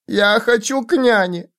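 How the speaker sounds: put-on very high pleading child voice; frightened child. A narrator's reading. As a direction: beg for nanny like a scared little one. Child begs for nanny.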